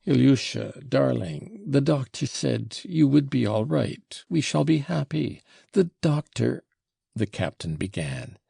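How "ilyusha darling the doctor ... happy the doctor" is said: higher-pitched, urgent comforting; desperate reassurance. A narrator's reading. Captain telling his sick son he'll recover, desperately reassuring. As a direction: reassure him eagerly, voice lifted.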